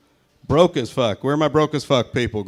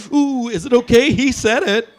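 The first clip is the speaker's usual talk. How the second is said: mock gasping crowd; 10 semitones higher, 4 dB louder than usual. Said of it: "everybody's like".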